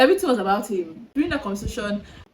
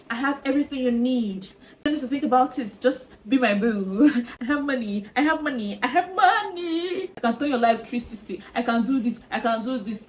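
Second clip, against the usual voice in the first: mocking his boastful voice; 2 semitones higher than usual. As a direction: play the bragging suitor, lightly. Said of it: "He was giving".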